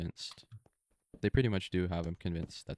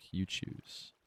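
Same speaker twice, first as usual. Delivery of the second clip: whispered plea; 4 dB quieter than usual. Retold or imitated. Hogarth braced to be shot.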